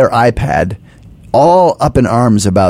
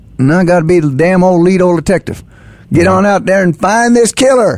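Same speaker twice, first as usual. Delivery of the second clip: pitched-up put-on Texas accent; 8 semitones higher than usual. Recalling auditioning as the old lead detective for Texas Heat: Texas accent. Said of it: "That's your Texas accent?".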